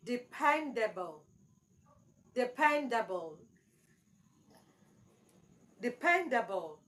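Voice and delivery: Dependable with the second syllable stressed; stress on PEN. Shown as a demonstration. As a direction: model de-PEN-dable, falling after PEN. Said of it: "should be on the second syllable".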